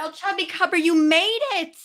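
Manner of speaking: high, loud delighted welcome; excited greeting. Real, not acted. Host greeting a viewer who just joined, excited. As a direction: call out happily as a guest turns up.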